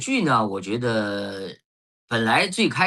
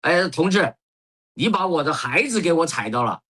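higher-pitched imitation of a flustered mum; anxious mother; 5 semitones higher than usual. Mother to a bus passenger who stepped on her, imitated fluster. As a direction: mimic mum's urgent complaint in Sichuan-accented Mandarin. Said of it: "她就当时就着急了".

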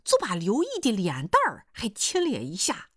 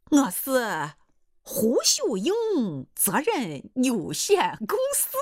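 slow, drawn-out company announcement; lightly puffed-up, each word stretched; pompous suitor; 4 semitones higher, much slower than usual. Acted. Suitor names his made-up company, slow and pompous.

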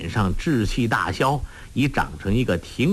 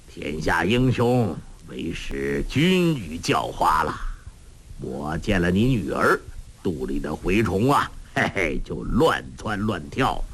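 lightly voiced old man, easygoing; a hint of a gruff old master; old beggar master; 4 semitones lower than usual. Old beggar boasting about food.

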